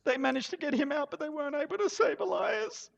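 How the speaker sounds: high, tearful telling of the loss; grieving widow. Acted. Widow telling adventurers how her husband died, high and grieving. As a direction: let the widow's grief lift the voice.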